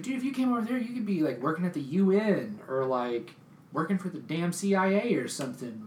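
high pitched, eager disbelief; excited high rant. Retold or imitated. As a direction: gush about their talent. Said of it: "I was like".

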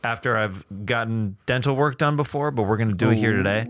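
speaking with a numb mouth. Real, not acted. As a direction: talk through a half-numb mouth. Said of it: "Half of my mouth is numb".

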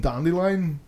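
"Dandelion" said as dan-DILLY-un; mispronounced name. Shown as a demonstration. Listener quoting the audiobook reader, "Dandelion" as dan-DILLY-un. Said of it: "the guy reading it keeps calling".

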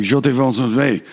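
mock Quebecker switching from French to English; French Canadian accent played for laughs. Shown as a demonstration. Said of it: "the French Canadian accent is like".

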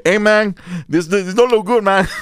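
lightly hammed-up Mexican accent. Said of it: "Mexican contractors are trying to tell".

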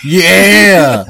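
high cracking laugh; laughing hard. Real, not acted. Cohost laughing at the derpy Wolverine, high laugh. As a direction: burst out laughing at the joke.

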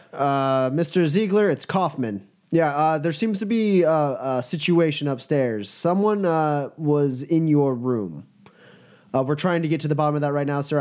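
hesitant, deferential report to the boss; lightly voiced nervous guard. Guard calls his boss about a break-in, lightly nervous. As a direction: stumble politely through bad news.

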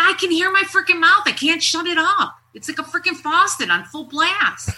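mock exasperated rant; retold frantic venting. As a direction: pour it out like an open faucet. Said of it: "I was so freaking angry".

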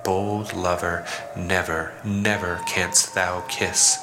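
slow, measured poetry reading with pauses between phrases; poem recitation. Acted. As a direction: recite the ode deliberately, letting each phrase hang.

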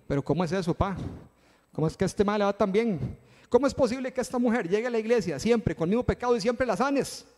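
joking whiny protest; mock jealous complaint. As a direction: play the jealous churchgoer for a laugh. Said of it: "yo estoy haciendo el chiste".

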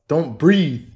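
"Don't breathe" shouted high and loud, as a play threat; mock yell. Playfully snapping at someone nearby.

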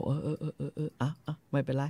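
dismissive. Retold or imitated. Cogburn brushing off LaBoeuf.

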